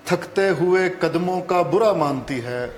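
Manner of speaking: measured Urdu verse reading; ghazal recitation. Acted. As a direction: recite the couplet in set phrases, pausing between them. Guest recites his ghazal.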